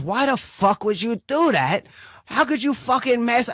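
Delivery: high, outraged friend demanding answers. Retold or imitated. Cal furious at him over the money, high outraged voice. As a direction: squeal the friend's disbelief up high.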